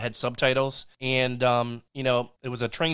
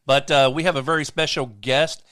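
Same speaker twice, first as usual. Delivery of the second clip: stuffy, nasally voice; talking through a blocked nose; 3 dB louder than usual. Real, not acted. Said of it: "I sound kinda nasally".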